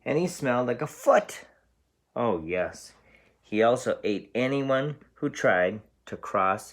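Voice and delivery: teacher reading a picture book aloud; story narration. A narrator's reading. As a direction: read it out to a class, bright and animated. Teacher reads story to class.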